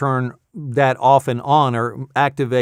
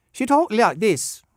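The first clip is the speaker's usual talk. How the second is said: high, slow, badly faked Australian; attempted Australian accent; 8 semitones higher, slower than usual. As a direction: have a clumsy go at an Australian woman's accent. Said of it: "How do they talk?".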